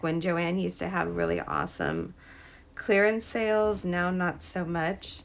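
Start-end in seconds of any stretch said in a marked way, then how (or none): none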